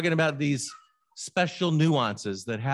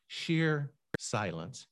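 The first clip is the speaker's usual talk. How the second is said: savoring softly; 6 dB quieter, much slower than usual. Shown as a demonstration. Savoring the phrase after reading.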